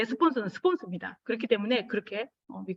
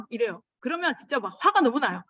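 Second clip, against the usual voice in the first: normal talking voice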